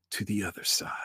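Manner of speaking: hushed seance whisper. Acted. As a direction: whisper it, lights off.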